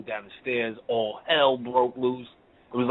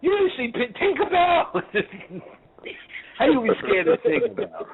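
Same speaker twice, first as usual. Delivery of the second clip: teasing laughter; 14 semitones higher than usual. Real, not acted. Teacher mocking a student scared of Tinkerbell, laughing. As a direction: tease through laughter.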